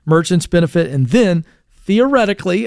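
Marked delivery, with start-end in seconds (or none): 1.9-2.6 "theoretically" said noticeably higher, with a rising end; stress on theoretically. Real, not acted. Host doubting merchants will pass on savings, stressing "theoretically" high and rising. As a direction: lean hard on "theoretically" and let it lift. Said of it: "I stress the word theoretically".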